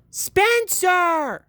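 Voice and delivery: high, loud scream of his name; mother screaming at the messy pile. Acted. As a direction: shriek his name in shock. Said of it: "she screamed".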